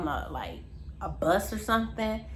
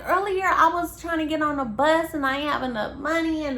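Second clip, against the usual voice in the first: mock frantic rant; 6 semitones higher, 3 dB louder than usual. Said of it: "She's yelling, she's screaming".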